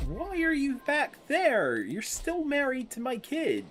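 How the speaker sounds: loud, high incredulous yelling; loud bewildered outburst; baffled shouting. Real, not acted. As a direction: shout your confusion at the screen. Baffled by spouse's position.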